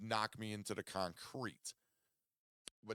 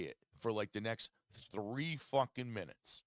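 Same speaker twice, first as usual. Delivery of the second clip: retold snapping at friends. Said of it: "I snapped and I said".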